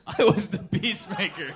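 mock yell. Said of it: "the loudest thing you've ever yelled".

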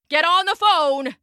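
urgent shout. A narrator's reading. Engineer ordering the dispatcher to call, urgent mild shout. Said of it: "he shouted".

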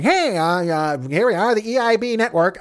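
skinny little kid playing a radio host, high-pitched; Limbaugh. Imagining the host shot with a shrinking ray, little-kid voice. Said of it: "make him a skinny little kid".

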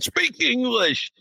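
high, drawn-out mock outrage; mock outraged yell. Imitating MAGA losing its mind at subtitles, mock outrage. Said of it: "maga would lose its freaking mind".

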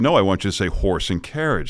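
HORSE AND CARRIAGE, R pronounced in full; insistent R correction. Retold or imitated. Voice teacher correcting her student, careful R in HORSE AND CARRIAGE. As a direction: correct with a clearly sounded R in HORSE. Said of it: "she would exaggerate to make the point".

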